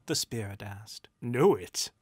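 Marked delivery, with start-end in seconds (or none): 1.2-1.9 sudden loud exclamation; exclaiming. A narrator's reading. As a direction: burst out at the question. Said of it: "Rupert exclaimed".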